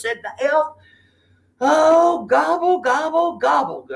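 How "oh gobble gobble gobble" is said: high gobble falling away; sighing gobble. A narrator's reading. Turkey giving up, high gobbles falling. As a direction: let the gobbles sink. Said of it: "Turkey sighed".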